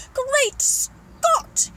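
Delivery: high, loud, astonished exclamation; gasped in shock. Acted. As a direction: blurt it out, utterly staggered. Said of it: "he gasped".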